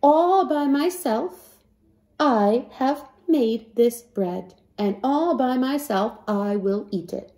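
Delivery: slow and proud; proud hen. Acted. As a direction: savour each word, self-satisfied. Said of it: "and said".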